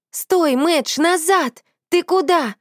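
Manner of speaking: high calls after the runaway dog; helpless shout. A narrator's reading. Friends call after the fleeing dog, high helpless shouts. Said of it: "беспомощно закричали мы".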